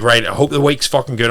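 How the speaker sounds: bright, pumped coach check-in; cheery coach hyping a client's week; upbeat check-in. Retold or imitated. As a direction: gee the client up. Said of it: "And I'm like".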